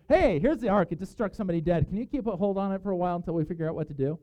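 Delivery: breezily offload a deadly box onto a neighbour; mock casual request. David's men asking a householder to keep the Ark, mock casual.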